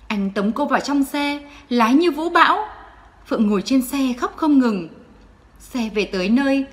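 ordinary delivery, nothing marked

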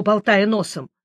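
ordinary delivery, nothing marked

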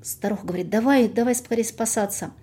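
lively folk tale narration; fairy tale storytelling. Acted. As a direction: tell it like an old village tale. Folk tale told aloud.

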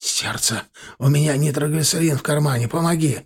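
rasping, gasping plea; hoarse wheeze. Acted. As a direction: wheeze it out in pain. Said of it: "прохрипел".

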